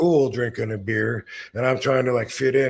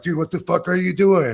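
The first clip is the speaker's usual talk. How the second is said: retold incredulous shout; 7 semitones higher, 5 dB louder than usual. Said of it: "Arn and William are like".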